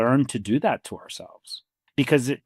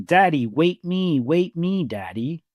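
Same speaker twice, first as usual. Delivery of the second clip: imitating a toddler's panicked cry, higher and slow; retold frantic screaming; 5 semitones higher, slower than usual. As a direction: echo the scared little boy calling after his dad. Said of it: "frantically starts screaming".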